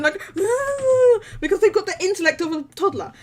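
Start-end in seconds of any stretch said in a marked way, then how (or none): 0.2-1.4 mock dopey noise. Imitates character with mouth hanging open.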